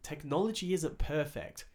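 measured, deliberately calm customer-service explanation; patient retold apology, carefully spaced out; calmest voice. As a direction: calmly reason with an upset customer. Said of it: "I said to her in the calmest voice".

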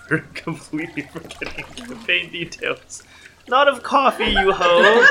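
loud laughing jeer; rowdy jeering pub banter. Real, not acted. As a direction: heckle him to drink, laughing. Jeering friend into drinking.

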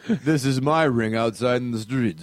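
put-on lightly Philly-accented boast; mock Philly accent. Mocking a Philly movie character, light Philly accent. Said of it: "imitating Philly accent".

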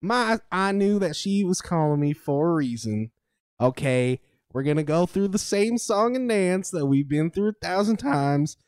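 talking around a wad of chew; words through a mouthful of tobacco. Acted. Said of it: "Oh, I definitely have tobacco in my mouth".

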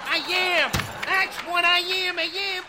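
high, loud cartoon character voice; bouncy old cartoon sidekick; vintage cartoon voice. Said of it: "act like a cartoon character".

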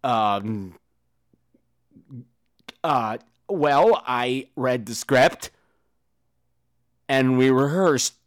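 mock dim actor. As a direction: drag it out like a clueless actor. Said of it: "the person that's asked just goes".

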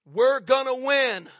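loud, slow declaration; slow, forceful preacher's promise; rallying cry. Real, not acted. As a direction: hammer each word out to rouse the crowd. Preacher rallies the congregation.

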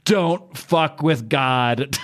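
very slow, drawn-out divine pronouncement; booming God. Acted. God warning the devil in the splash page, slow and commanding. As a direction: lay down each word like a thunderbolt. Giant close-up of God speaking.

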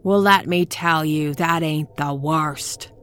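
put-on shrill, frantic old crone yelling; screaming old woman. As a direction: scream it at the listener, half mad. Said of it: "Zelda was really screaming now".

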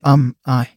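hesitant, halting start; begin, then falter; stumbling over words. A narrator's reading. Man lost for words before a first kiss, stumbling. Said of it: "He stumbled over his words".

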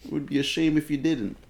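veiled threat in mock Italian accent. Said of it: "my Italian accent".

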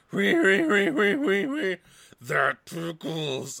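high, squeaky robot giggle; robot laugh. Retold or imitated. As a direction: mechanical tickled robot laugh. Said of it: "terrible robot laugh ever".

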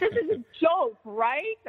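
high, incredulous mock yelling; re-enacted disbelieving outcry; retold scream. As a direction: demand to know it's a joke. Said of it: "I'm screaming".

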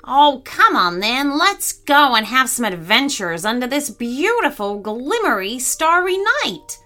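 high, enthusiastic parrot voice; eager coaxing. Acted. Parrot urging reluctant gorilla on adventure, eager. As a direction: coax brightly, stretching the last words high.

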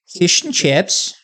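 slow, put-on British accent. Shown as a demonstration. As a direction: draw out the words in a mock British accent. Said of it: "in the accent".

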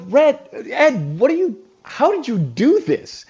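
half-laughing disbelief at the pile of cones; astonished. Retold or imitated. Guest recalls seeing the freezer bag of cones, retold astonishment. Stunned by thirty cones delivered.

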